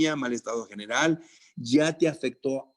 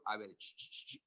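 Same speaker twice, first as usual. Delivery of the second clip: calming down. Acted. Calming the imagined student.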